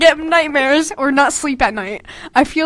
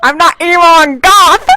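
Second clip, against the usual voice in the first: loud, high indignant whine; mock goth protest; 5 semitones higher, 10 dB louder than usual. Teasing her old emo character, playing him defending himself. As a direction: huff it like a offended goth kid.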